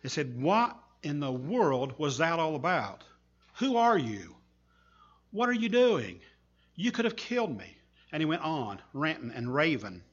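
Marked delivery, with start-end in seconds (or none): 0.4-7.8 rising, louder and much higher with each question; yelling at the kid who threw a brick; angry shouting. Retold or imitated. Furious driver shouting at the boy by his car. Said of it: "he started shouting at him".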